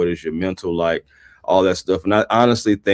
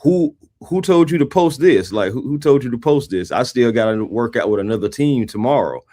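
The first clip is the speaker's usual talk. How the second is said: imitating an indignant player, higher at first; indignant retold challenge; 4 semitones higher than usual. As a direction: challenge them, in a mock-affronted quote. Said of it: "he was like".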